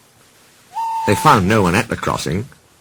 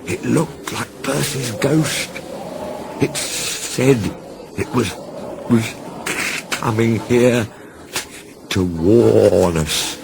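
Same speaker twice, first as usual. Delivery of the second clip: slow, hesitant, frightened halting words; shaky voice; 4 semitones higher, much slower than usual. Acted. Toby warns Thomas of the ghost, shaky and scared. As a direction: stammer it out, too scared to finish. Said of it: "said Toby in a shaky voice".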